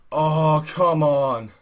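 ordinary delivery

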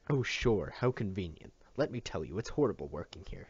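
mildly angry outburst; a touch of storming at the doctor; stormed. Acted. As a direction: vent at him, understated. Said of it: "she stormed".

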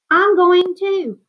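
high, loud and slow, bursting with excitement; excited cry. A narrator's reading. Popper calls to his wife, excitedly announcing his trip. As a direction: call it out like sudden joyful news. Popper decides to join expedition.

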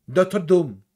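DOCTOR DOOM, forceful -OR and long DOOM; English-style emphasis. Shown as a demonstration. Showing viewers English "Doctor Doom", strong lengthened endings. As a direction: hit the last vowels of "Doctor Doom" and hold them. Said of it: "Hay que darle potencia".

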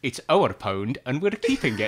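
Alex Salmond impression. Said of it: "he used to say all the time".

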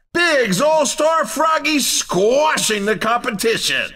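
punchy, hyped racing game announcer calling the action; race announcer. Acted. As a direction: sell every all-star move like a live play-by-play.

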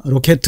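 "로켓" with Korean ㄹ, o and a clear e; wrong Korean pronunciation. Shown as a demonstration. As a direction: misdemonstrate rocket as Korean "로켓". 우리가 로켓 이렇게 하시는데.

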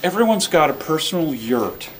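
a hint of a mellow NPR host easing through the thought; gentle radio host murmur, only lightly put on; Terry Gross voice. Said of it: "I don't know where this voice came from".

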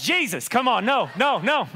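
hammed-up protest at bad luck; high comic exasperation; mock dismay. Acting man dismayed by second verse.

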